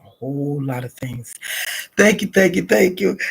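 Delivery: soft whispered thanks to God; whispered prayer. Real, not acted. Praying alone to God, a soft whisper. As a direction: hush it into a private prayer.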